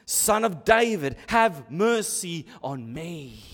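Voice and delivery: slow, heartfelt appeal for mercy; earnest cry, eased back from a shout; personal plea. Retold or imitated. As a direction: plead personally, drawing out the last words. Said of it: "Do you see how personal it is?".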